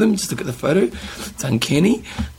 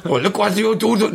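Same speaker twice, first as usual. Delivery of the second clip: laughing; 8 semitones higher than usual. Real, not acted. Co-host attempts South African accent.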